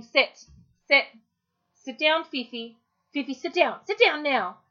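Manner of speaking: insistent, rising commands to a dog; impatient owner nagging the dog; nagging repeated command. Shown as a demonstration. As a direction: keep repeating sit, pushier each time. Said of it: "and I start repeating".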